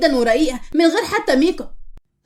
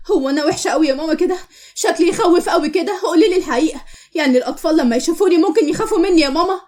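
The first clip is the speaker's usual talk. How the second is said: higher, wounded questioning; hurt pleading; 3 semitones higher than usual. Acted. Girl asking mother about her looks, hurt and pleading. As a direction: beg for the honest truth.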